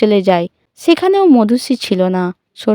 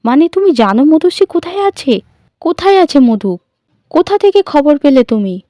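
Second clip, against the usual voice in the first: higher and louder, eager questions; eager, hopeful; 6 semitones higher, 4 dB louder than usual. A narrator's reading. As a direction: grab at the good news eagerly. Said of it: "Sharmistha খুশি হয়ে যায়". (উৎসুক, আশাভরা গলায়)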